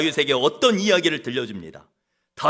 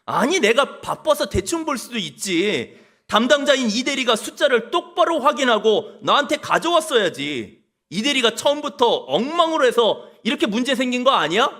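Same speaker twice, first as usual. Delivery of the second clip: boss shifting blame; 5 semitones higher than usual. Pretend. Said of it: "이렇게 남 탓합니다".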